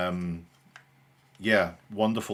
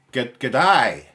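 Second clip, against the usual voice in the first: loud, higher Australian "g'day"; Australian accent; 4 semitones higher, 10 dB louder than usual. Shown as a demonstration. Streamer greeting viewers as the stream starts, loud Australian accent. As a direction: belt out a put-on Aussie greeting. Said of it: "my good Australian accent".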